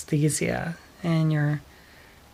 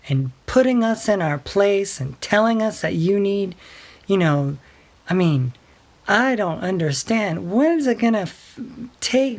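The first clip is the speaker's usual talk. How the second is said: imitating angry sister; 4 semitones higher than usual. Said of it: "the phone's getting a little hot".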